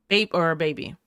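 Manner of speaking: whispered aside. Real, not acted.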